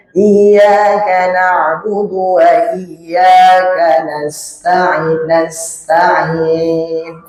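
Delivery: "nasta'in" with just a little hiss; only a touch of whistle on the s of "nasta'in"; light hiss. Shown as a demonstration. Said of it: "sedikit aja". (desis sin sedikit saja pada "nasta'in")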